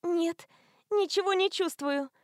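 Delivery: high, breezy tipsy answer; happily numb, in a high voice; cheery drunk. A narrator's reading. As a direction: Stevie telling the driver she feels nothing. Drunk Stevie answering the man.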